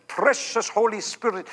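hushed, reverent evangelist voice; Kathryn Kuhlman's manner. Retold or imitated. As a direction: breathe it out like a swooning preacher. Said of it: "she would speak like that".

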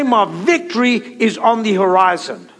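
firm, emphatic declaration; like you mean it. Shown as a demonstration. Preacher leading the congregation to repeat a declaration, like you mean it. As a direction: declare it with conviction. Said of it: "say it like you mean it".

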